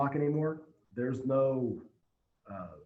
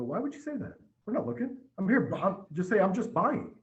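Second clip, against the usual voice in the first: pitched way up, exasperated disbelief at the customer; mock outrage, higher and louder as it goes; incredulous retold scolding; 8 semitones higher, 3 dB louder than usual. Retells scolding the customer's answer.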